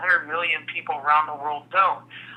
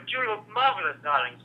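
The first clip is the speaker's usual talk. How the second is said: Fernando; 4 semitones higher, 3 dB quieter than usual. Acted. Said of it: "different than Fernando".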